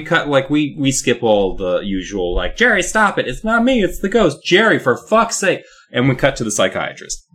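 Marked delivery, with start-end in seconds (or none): 2.6-5.6 mock exasperation. Kid and mom argue in story.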